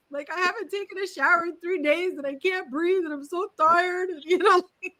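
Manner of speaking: high, rushed exhausted rant; breathless venting. Retold or imitated. New mother confessing to the hairdresser, high venting. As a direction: pour it all out at once. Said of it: "And I was like".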